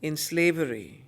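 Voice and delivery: poem recitation. Acted. Teacher reads Savitri aloud to the class, solemn poem recitation. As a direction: let each line weigh, measured and grave.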